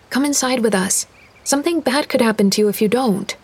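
put-on a curious girl asking Dad; young girl's voice. Girl warns Lydia.

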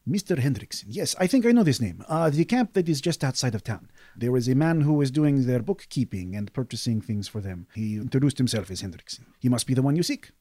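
a merchant keen to help and sell; eager desert merchant. Acted.

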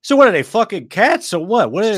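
put-on high, loud Long Island accent; baffled Long Islander demanding answers; indignant Long Island accent. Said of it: "Long Islander discovering the existence of furries".

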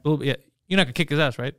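low, understated dead-serious challenge. Acted. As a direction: act completely serious, keeping it low. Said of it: "But just serious, like".

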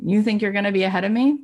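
a hint of a cocky champion taunting; lightly voiced Serena, playful boast; Serena taunting sister. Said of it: "Serena looking at her sister and saying".

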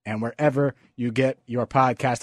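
a little out of breath from the stairs. Real, not acted. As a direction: talk while catching your breath. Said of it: "If I'm out of breath".

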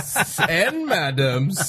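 slow, hammed-up gentleman; old-timey gay voice. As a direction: drag it out like a dandy. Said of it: "that's my old-timey gay".

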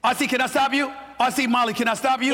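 jumping in to stop the talk; cutting in. Real, not acted. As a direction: break in over the others. Cutting in on co-hosts.

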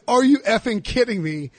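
retold grumble, meant to be overheard; loud mutter. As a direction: mutter it loudly in disbelief. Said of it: "very loudly under my breath".

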